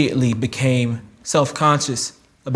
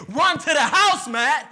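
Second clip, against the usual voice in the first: higher, urgent call to run; 14 semitones higher than usual. Retold or imitated. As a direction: call out for him to flee home. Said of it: "and they said".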